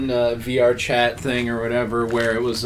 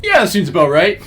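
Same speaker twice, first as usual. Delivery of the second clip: dude voice; 7 semitones higher, 8 dB louder than usual. Retold or imitated. Acted dude voice reply.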